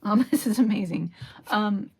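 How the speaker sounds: tearful laughing whisper; overwhelmed, half laughing, half whispering; real emotion breaking through; emotional. Real, not acted. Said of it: "Wow, I'm getting emotional here".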